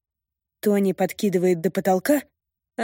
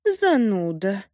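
disappointed sigh; slower than usual. Acted. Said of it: "разочарованно вздыхает".

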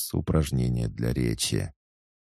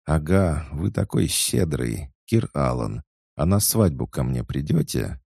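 chatty excited maid; 4 semitones higher than usual. Acted. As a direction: gush it out breathlessly eager. Svetika eager. (восторженная болтливая служанка)

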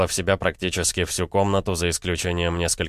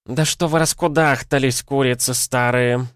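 higher scolding voice, no quaver; старуха помоложе, без дребезжания; 6 semitones higher, 3 dB louder than usual. A narrator's reading. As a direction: cut in on the squabbling grannies. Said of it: "Этот голос не был дребезжащим". (сварливо, но без старческого дребезжания)

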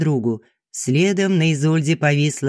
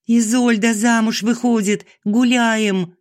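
joyful shout; 9 semitones higher than usual. A narrator's reading. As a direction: shout the happy news to everyone. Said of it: "закричала Люба". (Люба радостно кричит всем о свадьбе)

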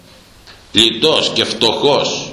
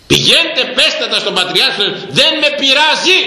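defiant shout; 12 semitones higher than usual. Real, not acted. Preacher defying critics to tell the Patriarch, shouting. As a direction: dare them to report him.

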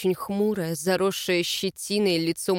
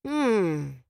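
thoughtful hum; 4 semitones lower than usual. A narrator's reading. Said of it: "задумчиво произнёс Альфа".

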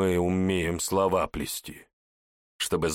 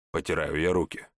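plain reading voice

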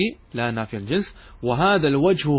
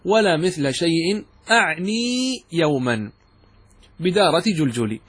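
slow paraphrase; slower than usual. Shown as a demonstration. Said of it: "التقدير هكذا".

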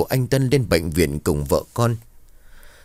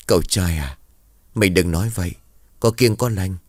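put-on old woman. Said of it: "Một bà cụ ngồi bên cạnh lên tiếng".

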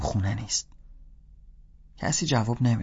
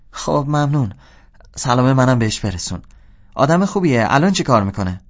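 suddenly friendly; 3 semitones higher, 5 dB louder than usual. Acted. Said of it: "یهو لحنش دوستانه شد".

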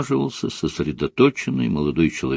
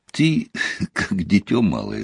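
words broken up by laughter; laughing; 4 dB quieter than usual. A narrator's reading. Woman amused by his pranks, laughing. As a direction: chide him through a laugh. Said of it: "рассмеялась".

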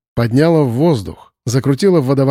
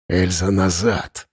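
wheezed, lower and softer; hoarse call; 6 semitones lower, 4 dB quieter, slower than usual. A narrator's reading. Arkhip calling Elza back, hoarse. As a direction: rasp out a warning. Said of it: "прохрипел Архип".

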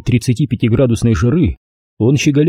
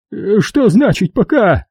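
wheezing like a goose; 9 semitones higher, slower than usual. A narrator's reading. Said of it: "просипел он простуженным гусаком".

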